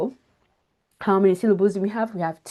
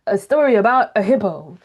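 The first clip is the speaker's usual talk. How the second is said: a teacher giving the word away too soon; announcing the word; 4 semitones higher than usual. Shown as a demonstration. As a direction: show the wrong way of just telling them the word. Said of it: "Don't say".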